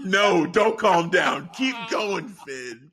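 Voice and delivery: excited urging. Real, not acted. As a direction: egg him on. Cheering Finn on.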